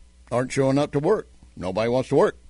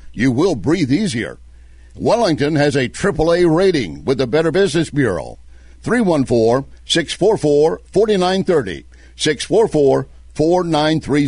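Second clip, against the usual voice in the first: upbeat radio ad read, phone number punched out; confident on-air commercial voice. Acted. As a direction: sell it like a sponsor spot. Host reads sponsor ad.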